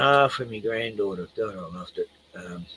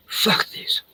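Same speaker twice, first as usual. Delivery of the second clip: muttered aside; 5 dB quieter than usual. Retold or imitated. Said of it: "It's like".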